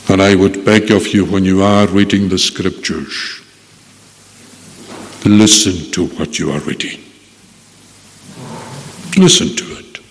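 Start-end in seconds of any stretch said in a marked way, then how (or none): 5.2-10.0 LISTEN pressed with a falling tune; stress on listen. Acted. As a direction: urge them to listen. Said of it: "It's very important to listen".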